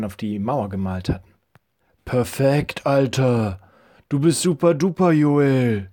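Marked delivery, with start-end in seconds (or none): 2.0-5.9 put-on lightly raised, cheering boy; calling out admiringly. A narrator's reading. Levi praises his friend's shot, calling out with a touch of excitement. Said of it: "rief Levi seinem Freund zu".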